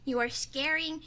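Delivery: ordinary talk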